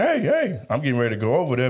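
lively yelling voice, pitched high. Retelling yelling at a man and woman fighting in the street, retelling a yell. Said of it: "I'm yelling like".

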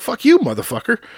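shrill, very high, loud, furious swearing outburst. Retelling how a scam caller started cussing: imitating a caller cussing angrily. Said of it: "This guy starts cussing me out".

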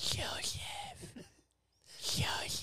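soft, breathy, very quiet whisper, barely voiced. Acting out people saying your name softly back to you; saying the name softly. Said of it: "say your name again and say it softly".

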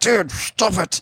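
mock, very high-pitched, angry outburst. Retelling snapping at someone in a public place: imitating an angry outburst. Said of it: "Just anger".

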